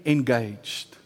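slow insistence. Retold or imitated. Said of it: "He's just saying".

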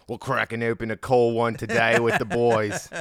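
jokey Aussie mate voice; Australian accent. Acted. Host showing off practised accent, Australian accent. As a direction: ham up a casual Australian.

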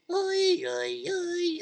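high soft mock wail. Mother despairing over the horse, high wailing.

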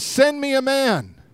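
high, drawn-out call with no real volume; mock giant's call. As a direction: call out the challenge slowly, stretching each word. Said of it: "he screams out".

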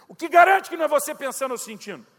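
pergunta alta e aguda, desafiando; contestação exaltada. Retold or imitated. Contesta o amigo, ofendido. (pergunta exaltada, em tom de desafio)

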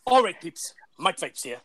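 lightly voiced American vlogger greeting; a hint of impersonated American presenter; Mike Vapes. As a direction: have a go at an American vlogger's intro. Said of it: "Or, or the Mike Vapes".

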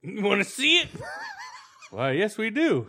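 high, laughing mock judge; giddy courtroom bit.

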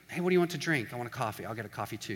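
understated acted exchange, quietly casual; low-key chat. Two people ordering at Starbucks, quiet and casual. Mild coffee order before outburst.

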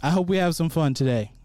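hearty outdoorsy cheer; upbeat camp counselor greeting. Real, not acted. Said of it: "you sound like a camp counselor".

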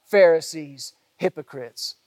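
slow, loud woe to their face; woe pronounced. Retold or imitated. Preacher voicing Jesus rebuking the Pharisees, slow and loud. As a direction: thunder it out slowly, face to face. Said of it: "he says to them over and over, face to face".

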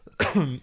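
brief dry cough. Real, not acted. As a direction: clear the scratchy throat with a cough. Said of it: "Trockener Husten".

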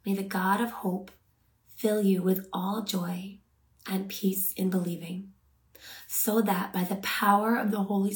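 measured Bible verse reading, phrase by phrase; contemplative, unhurried scripture. Real, not acted. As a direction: read the verse deliberately, pausing to let it land. Reads scripture for meditation.

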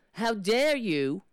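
slow, indignant rebuke; mock-confrontation, slow and affronted; acted indignation. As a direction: confront them, drawing out each word.

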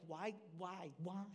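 soft, hushed self-reproach; acted regret. Speaker voicing someone regretting their words, quiet acted regret. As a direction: quietly kick yourself, voice dropped.

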